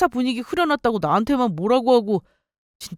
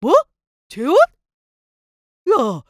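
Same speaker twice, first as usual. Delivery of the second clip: shocked; 5 semitones higher, 5 dB louder than usual. Acted. Ex-husband learns of her remarriage.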